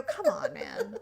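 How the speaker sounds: very high mock come on man, fading soft; playful disbelief squeak; exasperated. Wife answering husband's joke, high mock exasperation. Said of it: "I go".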